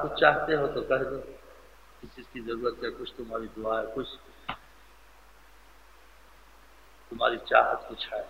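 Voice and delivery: softly voiced, gentle questioning; retold tender offer. Master asks companion what he wishes, tender offer.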